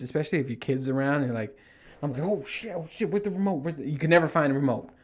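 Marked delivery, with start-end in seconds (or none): 2.2-3.9 high, hushed panicked muttering; mock panic. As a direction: scramble for the remote in a fluster.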